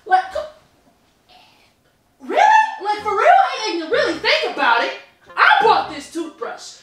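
high, loud, laughing through the words. Real, not acted. Boyfriend laughing off her disgust, laughing. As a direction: crack up while protesting. Laughs while defending himself.

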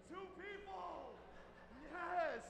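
breathy, high whispered yes of triumph; a secret little victory whisper; hushed celebration. Retold or imitated. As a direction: celebrate under your breath so nobody hears. Private celebration after good news.

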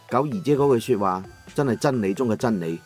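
usual speaking voice

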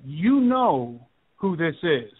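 slow, drawn-out imitation of a malevolent voice; lightly voiced demon, stretching the words slowly; demonic caller. Demonic phone caller answers who he is, lightly voiced malevolence. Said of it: "deep, raspy, very demonic, malevolent voice".

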